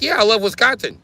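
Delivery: high sing-song imitation of a white dude; mock white dude. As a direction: parody a fake-cheerful guy. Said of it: "same white dudes like".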